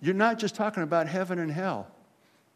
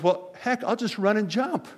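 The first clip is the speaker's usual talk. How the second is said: put-on higher-pitched little boy with a simple plan; 5 semitones higher than usual. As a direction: play a small kid, voice lifting as he goes. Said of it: "the little boy goes".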